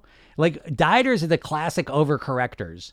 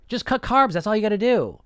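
higher, lighter echo of the pitch; mock diet pitch; 5 semitones higher than usual. Echoing diet ads for listeners, a light mock slogan. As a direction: toss it off like a cheap slogan.

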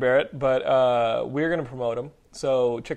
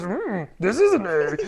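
slow Yoda-ish voice; a hint of wise old Yoda correcting; mock Yoda showing the right note; imitating Yoda; 4 semitones higher, 4 dB louder, slower than usual. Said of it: "He goes".

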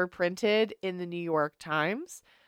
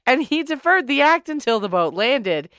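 put-on old-timey voice. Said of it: "use the old-timey voice".

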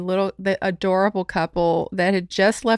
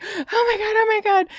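high-pitched mock fretting; ridiculous high little "oh my God" noises; ridiculous panicky noises; 11 semitones higher than usual. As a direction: imitate him squealing in a silly high voice. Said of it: "he starts making these ridiculous, like, noises".

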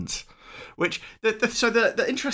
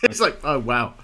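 laughing; 3 semitones higher, 4 dB louder than usual. Real, not acted. Laughing at film mistake.

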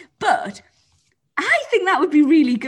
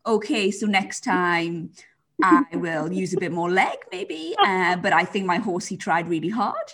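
a hint of a rider explaining a knocked pole; show jumper interview; 5 semitones lower than usual. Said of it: "when the show jumpers are like".

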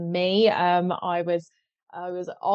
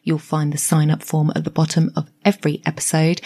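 bright, louder announcer read over music; podcast intro read; 2 semitones lower, 5 dB louder than usual. Acted. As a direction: sell the show like a radio promo.

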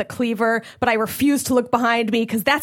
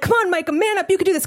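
self pep talk; 7 semitones higher, faster than usual. Retold or imitated.

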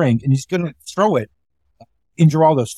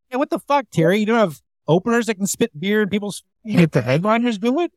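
mock indignant Geraldo; 5 semitones higher than usual. Geraldo mocked in retold scene.

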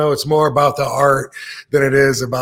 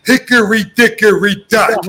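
loud, high brash comic voice; Andrew Dice Clay voice; 9 semitones higher, 6 dB louder than usual. Retold or imitated. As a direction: belt it out like a brash stand-up. Reciting a loved comedy routine.

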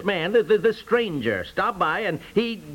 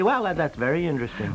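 mock calm lawyer tone; 4 semitones lower than usual. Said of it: "you say very calmly".

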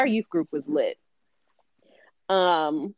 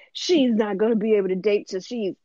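a hint of an emphatic father laying down a rule; protective father; 3 semitones higher than usual. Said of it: "when fathers have daughters and they're like".

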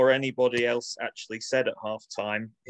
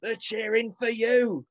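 mock team talk; 5 semitones higher than usual. Reading a halftime team talk.

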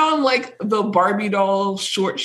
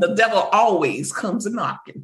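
mock Southern accent. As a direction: quote her folksy devil line. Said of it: "that quote when she's like".

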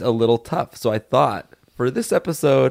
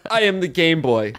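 mock yell; 4 semitones higher than usual. Shown as a demonstration. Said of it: "and then you also yell".

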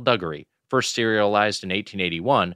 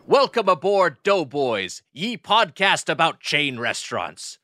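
put-on old sailor; 5 semitones higher, slower than usual. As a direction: ham it up like a salty sea captain. Pirate welcome to podcast.

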